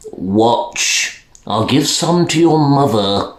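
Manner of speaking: lightly voiced doctor, coaxing; a hint of a kindly doctor; gentle doctor persuading the mother. Doctor's voice in read story.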